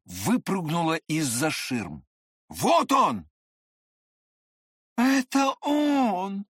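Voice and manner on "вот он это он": high, slow excited exclaim; woman exclaiming at the guest. A narrator's reading. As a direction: cry out in delight. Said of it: "воскликнула Альфонсина".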